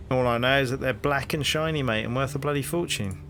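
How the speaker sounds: hearty London copper, rising into the question; cheery Cockney policeman greeting a stranger; cockney bobby. Acted. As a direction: play the nosy beat cop on his rounds. Policeman describes.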